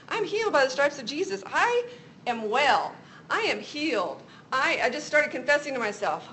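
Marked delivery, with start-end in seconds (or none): 0.1-4.2 retold firm self-affirmation, pitched up; insistent faith confession; emphatic declaration. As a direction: declare it with conviction, leaning high on "I".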